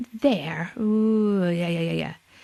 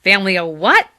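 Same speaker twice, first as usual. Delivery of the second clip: Clancy; 6 dB louder, faster than usual. Acted. Clancy asks on the phone.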